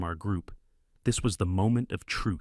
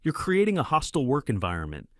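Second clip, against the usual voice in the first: high, loud shriek; 8 semitones higher, 4 dB louder than usual. A narrator's reading. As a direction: shriek it in outrage. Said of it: "she shrieked".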